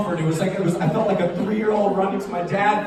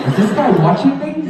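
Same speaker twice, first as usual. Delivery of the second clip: puzzled inner voice; 8 semitones higher, 6 dB louder than usual. Retold or imitated. Imagined thought of seatmate.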